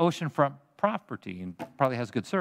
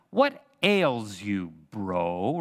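mock taunt; 5 semitones lower, much slower than usual. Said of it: "they are mockingly saying".

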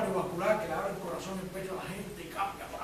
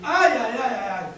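shocked gasps; 8 semitones higher, 12 dB louder, slower than usual. Retold or imitated. Nurses gasping in shock.

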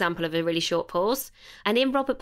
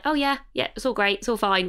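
offhand default reply. Retold or imitated. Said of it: "so often we just default to".

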